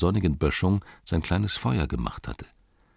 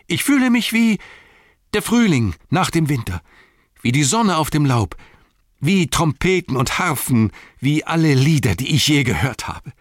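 much higher, loud rapturous exclamations; elated outburst; 9 semitones higher, 6 dB louder than usual. Acted. Sam waving his arms, high rapturous outcry. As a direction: soar with joy like spring after winter. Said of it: "er schwenkte die Arme hoch".

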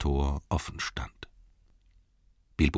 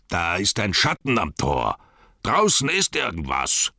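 orc calling out. Acted. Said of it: "rief von innen einer der Orks".

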